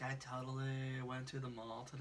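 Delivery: put-on Valley Girl accent, stretched vowels; a light Valley Girl accent with stretched vowels; mock California Valley Girl accent. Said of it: "a Valley Girl accent".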